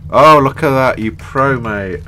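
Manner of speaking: thrilled praise for a pro move; excited praise. Real, not acted. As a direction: shout out the compliment. Praising a good game move.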